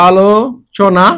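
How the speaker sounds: আলোচনা stretched out very slowly, syllable by syllable; teacher stretching আলোচনা very slowly. Shown as a demonstration. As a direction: draw out আলোচনা slowly for the class.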